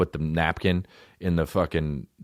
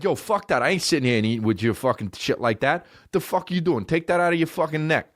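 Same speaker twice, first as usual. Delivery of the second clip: indignant, higher-pitched New Yorker impression; mock outrage in a New York accent; New York objector; 6 semitones higher than usual. One guy objecting to the bib, New York indignation. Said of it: "That's so New York for one guy".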